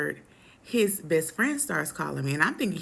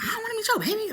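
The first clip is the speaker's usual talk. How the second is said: mock snooty brush-off; much faster than usual. Mocking own past rude reply.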